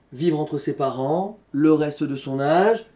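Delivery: measured verse, small break between "parents" and "le reste"; pause at mid-line. Shown as a demonstration. Teacher showing the poem's structure, verse split in halves after "parents". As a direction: recite in two halves, pausing briefly after "parents". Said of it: "tout le poème a cette structure".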